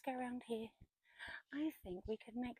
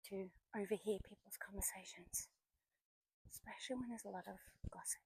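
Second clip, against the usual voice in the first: whispering; 4 dB quieter than usual. Real, not acted. Passing a man on phone.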